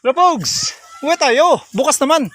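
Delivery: high, sing-song call to the goats; calling animals. Real, not acted. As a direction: coax the goats home, calling out. (pagtawag sa mga kambing)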